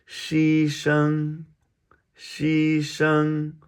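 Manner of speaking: "牺牲" held high and level; first tone. Shown as a demonstration. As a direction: sustain both syllables of "牺牲" on one high note. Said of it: "All first tones".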